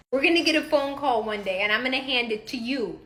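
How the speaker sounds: ordinary talk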